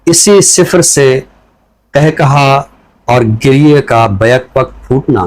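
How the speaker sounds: measured, deliberate reading of a poem; poem recitation. Acted. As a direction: give each line weight and leave pauses between phrases. Poet recites his poem. (ٹھہر ٹھہر کر نظم کی سنجیدہ قرأت)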